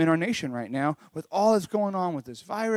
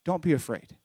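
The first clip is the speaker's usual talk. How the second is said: gentle reassurance; 4 dB quieter than usual. Retold or imitated. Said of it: "And he's like".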